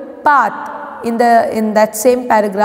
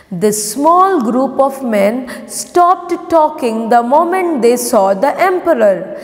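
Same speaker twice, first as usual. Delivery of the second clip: slow, measured classroom reading; story read-aloud; slower than usual. Acted. Teacher reading the lesson for pupils to follow, measured read-aloud. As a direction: read it out word by word for children.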